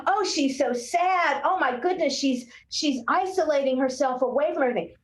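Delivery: mock-fret over the sad child; worried adult. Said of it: "our adult instinct was".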